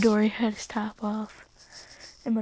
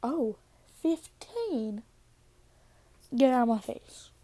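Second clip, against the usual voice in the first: angry; 2 semitones higher than usual. Retold or imitated. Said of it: "he's like".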